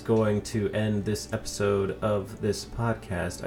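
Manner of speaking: slow, drawn-out announcer outro. Pretend. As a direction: read it like a formal sign-off. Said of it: "I don't know why I am talking like this".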